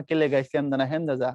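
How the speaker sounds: a lightly done Brahmanbaria accent; Brahmanbaria dialect. Shown as a demonstration. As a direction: say it like a Brahmanbaria local. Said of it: "আমার এলাকার ভাষায় যদি বলি".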